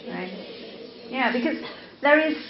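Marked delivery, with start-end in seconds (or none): none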